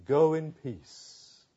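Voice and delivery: tender blessing. Acted. Jesus blessing the woman.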